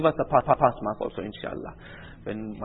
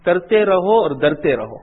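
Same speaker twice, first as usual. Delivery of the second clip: slow, loud, higher proclamation; declaimed maxim; 5 semitones higher, 10 dB louder than usual. Real, not acted. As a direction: ring out the saying slowly. Proverb declaimed forcefully.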